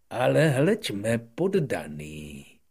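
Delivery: loud, high royal exclamation; king exclaiming. Acted. King greeting the little prince, loud and high exclaim. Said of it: "zvolal král".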